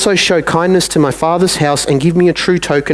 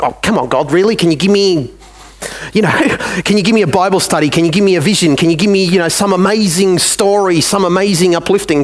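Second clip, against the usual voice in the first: exasperated pleading; 4 semitones higher than usual. Retold or imitated. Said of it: "And it's like".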